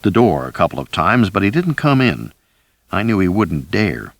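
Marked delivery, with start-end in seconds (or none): none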